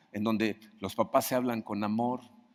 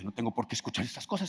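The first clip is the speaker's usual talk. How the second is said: dismissive; 3 semitones lower, 6 dB quieter, faster than usual. Acted. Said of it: "escuchan el grito y dicen".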